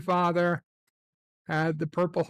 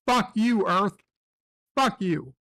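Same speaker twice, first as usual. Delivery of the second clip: mock angry rant.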